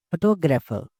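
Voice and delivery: "फोटोग्राफर" with the stress on टॉग; stress on second syllable. Shown as a demonstration. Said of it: "top पे, stress on".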